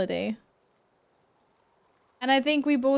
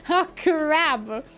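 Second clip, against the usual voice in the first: startled; 4 semitones higher, 4 dB louder than usual. Real, not acted. Reacting to being caught.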